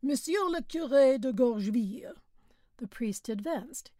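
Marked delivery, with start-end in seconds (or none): 0.0-2.2 driver calling names aloud; loud roll call. A narrator's reading. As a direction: call the name out across the yard. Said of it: "he called".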